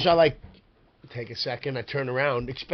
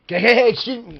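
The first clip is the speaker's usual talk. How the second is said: higher, louder call to the bartender; 8 semitones higher, 6 dB louder than usual. Retold or imitated. Trying to close his tab at a noisy bar, loud call. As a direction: wave down a busy bartender.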